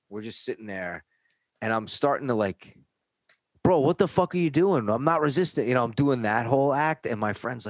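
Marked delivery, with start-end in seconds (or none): 3.6-5.7 high loud protest. Retold or imitated. Young guy protesting to the cops, high and loud. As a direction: plead your innocence loudly.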